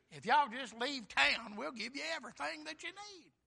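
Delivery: high-pitched mock plea, starting loud; mock pleading. Preacher voices Egyptians urging Israel to go, mock pleading. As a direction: plead it high, drawing out "leave town".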